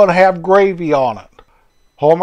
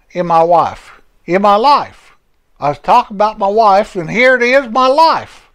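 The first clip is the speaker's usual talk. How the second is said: put-on lightly raised folksy old fellow, cheerful; chatty old Homer greeting his friend; 5 semitones higher than usual. Homer greets his old friend Jerry, lightly raised folksy voice.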